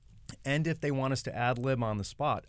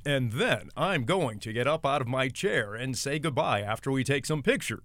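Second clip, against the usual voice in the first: affected newscaster voice; 2 semitones higher, 4 dB louder than usual. Shown as a demonstration. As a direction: ham up the news voice. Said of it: "If I start reading like this".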